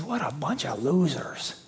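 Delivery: slow, quiet, scornful dismissal; sneering elder son. Retold or imitated. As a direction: look down on them, slowly and softly.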